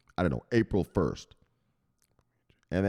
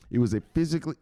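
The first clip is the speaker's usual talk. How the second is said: excited; 8 semitones higher, 3 dB louder, much faster than usual. Real, not acted. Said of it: "I'm, I'm excited".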